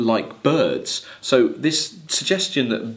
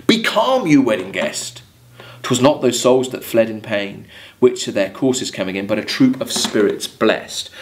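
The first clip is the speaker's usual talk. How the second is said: poem reading. Acted. Teacher reads the mariner's reply to the wedding guest, declaiming. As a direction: read it as the mariner calming the guest.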